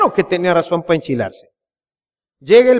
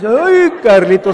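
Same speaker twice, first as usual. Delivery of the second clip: loud exasperated outburst; 4 dB louder than usual. Retold or imitated. Mom loses temper.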